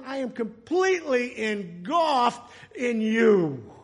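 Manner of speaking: high, impassioned cry to the Lord; great big declaration. Acted. Psalmist telling the Lord he is engulfed, big and exultant. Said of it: "what David was saying in a great big way".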